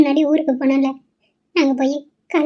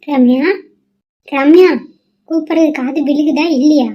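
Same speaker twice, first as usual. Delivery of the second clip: calling out; 4 dB louder than usual. Acted. Mother calls daughter from afar.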